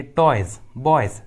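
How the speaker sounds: टॉयज and बॉयज called out, ending in Z; final S as Z. Shown as a demonstration. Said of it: "एस का उच्चारण ज होता है". (टॉयज, बॉयज में S को "ज़" बोलते हुए)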